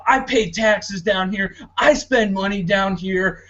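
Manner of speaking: put-on a touch of a put-out old snowbird; mock indignant snowbird. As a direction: play the huffy entitled retiree, lightly. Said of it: "this mentality of".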